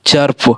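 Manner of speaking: चर्प with an open a before rp; "aa" vowel demo. Shown as a demonstration. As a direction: sound चर्प as "charp". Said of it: "आ का उच्चारण आ रहा है".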